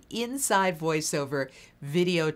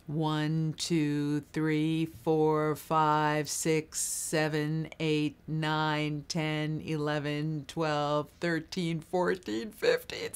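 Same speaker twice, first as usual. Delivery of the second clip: counting on one breath; much slower than usual. Shown as a demonstration. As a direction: count out the whole breath evenly. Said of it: "you exhale counting like this".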